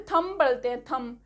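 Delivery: "थंब" ending on M, tham; correct silent B. Shown as a demonstration. Teacher giving the real pronunciation, correct silent B. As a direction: drop the B from "थंब". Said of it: "बी इसमें silent होता है".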